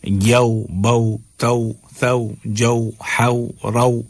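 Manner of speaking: each of "یو، بو، تو" gliding a to oo, as yau, bau, tau; measured list from "یو" to "رو", all au; au glide drill. Shown as a demonstration. Teacher drilling letters for learners, au glide. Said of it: "او کی آواز آئے گی".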